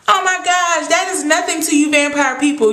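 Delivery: high, exasperated complaint; exasperated protest. Real, not acted. Fan scolding vampire people over the punishment, exasperated. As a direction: argue with them in high-pitched disbelief.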